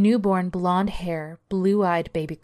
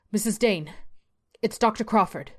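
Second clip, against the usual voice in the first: bellowed; 4 semitones higher than usual. Acted. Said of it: "A familiar voice bellows from below".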